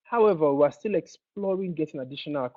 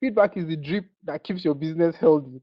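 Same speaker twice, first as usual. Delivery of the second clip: Feedback said louder like a stage speaker; motivational speaker; 4 dB louder than usual. Shown as a demonstration. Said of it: "Let me talk like a motivational speaker".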